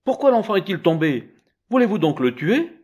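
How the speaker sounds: high, loud accusing cry; women demand an answer in alarm. Acted. Women rushing in at the noise, high alarmed accusation.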